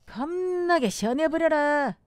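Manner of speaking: Jeolla dialect lilt; 전라도 사투리. Shown as a demonstration. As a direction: say it like a Jeolla local. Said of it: "전라도". (전라도 사투리 억양으로)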